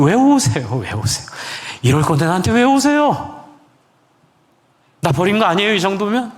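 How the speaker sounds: high, pleading questions thrown at God; anguished protest. Retold or imitated. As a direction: plead in hurt bewilderment, pitch leaping up. (원망 섞인 높은 목소리로 따지듯이)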